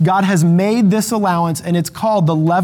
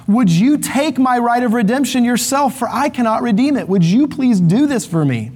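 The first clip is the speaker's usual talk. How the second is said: higher, imploring plea to Boaz; pleading; 5 semitones higher than usual. Retold or imitated. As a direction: beg him to take it off your hands, lightly acted. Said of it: "he's now pleading with Boaz".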